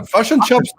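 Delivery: high New Zealand "Fush and chops"; New Zealand pronunciation. Shown as a demonstration. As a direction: say "Fush and chops" with short i turned to u. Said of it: "that's very New Zealand".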